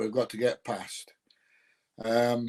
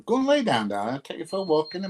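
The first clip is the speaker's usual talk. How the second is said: high, loud coaxing to the dog; pet talk; 4 semitones higher, 4 dB louder, faster than usual. Real, not acted. Talking to his dog, high loud coaxing. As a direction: shoo the dog off sweetly.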